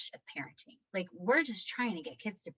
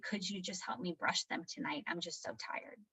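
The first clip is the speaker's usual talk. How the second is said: put-on tired child; 9 dB quieter than usual. Retells tired son asking help.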